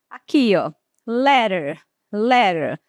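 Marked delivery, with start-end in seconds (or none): 1.1-2.8 "Letter" with a flapped T, "lerer". Shown as a demonstration. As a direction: tap the T in "Letter". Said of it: "Observe que a letra T, ela vem entre vogais".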